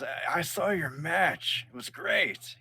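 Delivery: admiring fighter. Acted. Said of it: "walks up to you and goes".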